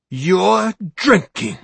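high, slow, surprised; slow surprised gotcha; surprised, pleased. Acted. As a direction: catch him out, secretly pleased. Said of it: "surprised but not totally devoid of pleasure".

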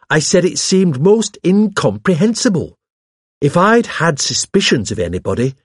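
high, indignant protest; agitated self-defence. Acted. Hawes defends himself to the vicar, agitated.

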